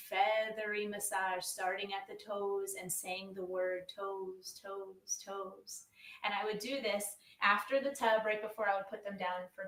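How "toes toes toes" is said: slow, gently fading repetition; soothing repetition. Shown as a demonstration. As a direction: say it softly, trailing down for a baby. Demonstrating soothing massage words for babies.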